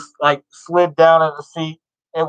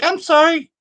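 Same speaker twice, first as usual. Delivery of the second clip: put-on much higher, sweet apologetic girl voice; 12 semitones higher than usual. Girl who bumped the soda apologizes in a high mock voice. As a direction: imitate a flustered girl apologizing. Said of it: "She's like".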